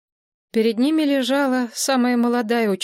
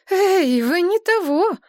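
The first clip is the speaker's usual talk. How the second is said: high, loud cry of alarm; alarmed call; 10 semitones higher, 4 dB louder, slower than usual. Acted. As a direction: call out to stop someone fading. Alarmed cry to collapsing man.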